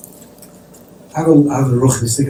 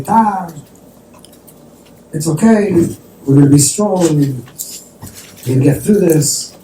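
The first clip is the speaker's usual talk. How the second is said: raised, higher-pitched voice of sons consoling their father; encouraging sons; 6 semitones higher, slower than usual. Retold or imitated. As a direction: reenact children giving their father encouragement. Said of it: "try to give the father chizuk".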